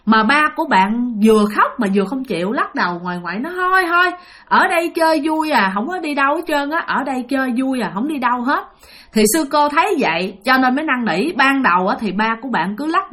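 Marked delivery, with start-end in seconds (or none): 3.6-8.6 higher whining plea that fades down toward the end; a stubborn ghost refusing to go, wailing then settling; whiny possessed child. Retold or imitated. Possessed father refuses to leave, crying. (giọng vong nhõng nhẽo, cao rồi nhỏ dần)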